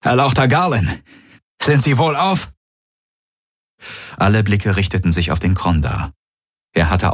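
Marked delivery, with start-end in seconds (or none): 0.0-2.5 concerned guard. A narrator's reading. Alien guard anxiously addresses her master.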